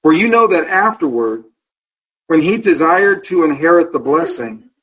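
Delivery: solemn reading of the text; scripture reading. Acted. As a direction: read the verse out with weight. Reads scripture aloud.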